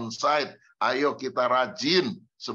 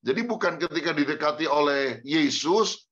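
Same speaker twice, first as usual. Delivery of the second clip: usual speaking voice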